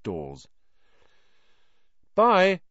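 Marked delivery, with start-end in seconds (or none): 2.1-2.6 loud, high farewell call; raised-voice send-off. A narrator's reading. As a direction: call goodbye across a distance. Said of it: "Harry called to Ron".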